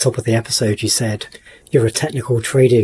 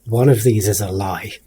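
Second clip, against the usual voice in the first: magician voice; slower than usual. Acted. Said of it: "I'm saying all of this in my, like, magician voice".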